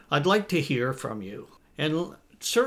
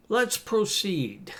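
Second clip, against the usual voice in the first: formal; 6 semitones higher, slower than usual. Shown as a demonstration. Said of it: "Which one do you like?".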